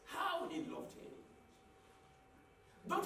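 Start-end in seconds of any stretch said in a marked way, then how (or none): 0.0-1.1 whispered. Real, not acted. Preacher whispering the verse to the congregation. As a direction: whisper "How he loved him" softly. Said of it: "repeated quote, now breathy".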